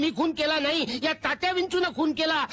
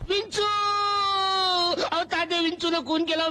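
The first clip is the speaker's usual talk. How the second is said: panicked cry; 3 semitones higher than usual. Acted. Panicked prisoner cries out.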